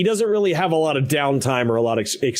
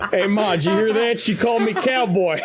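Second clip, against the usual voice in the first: put-on much higher, excited boyish voice; giddy excited; 10 semitones higher than usual. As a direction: gush like a smitten kid. GM voices smitten cowboy NPC.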